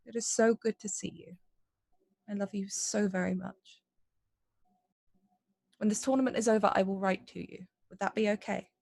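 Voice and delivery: soft, gentle reassurance to a brother; hushed, heartfelt and careful; tender big sister. Acted. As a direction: speak softly, with quiet affection. Sister tenderly greeting her brother.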